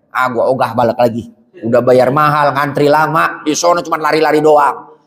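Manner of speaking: lightly voiced, a touch of casual Jakarta grumbling; mock a pilgrim who refuses to go back. Tired pilgrim home from hajj grumbling, low and casual. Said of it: "ditanya pulang haji, apa jawabnya".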